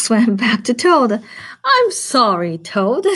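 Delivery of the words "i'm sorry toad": laughing apology. Real, not acted. Teacher laughing while reading Frog.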